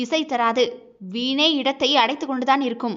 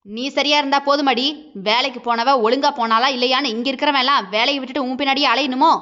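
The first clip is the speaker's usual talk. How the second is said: slightly shouting. Acted. Husband half-shouting at his wife on the phone, raised voice. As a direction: lift the voice in anger. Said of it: "சற்று கத்தி பேசியவன்".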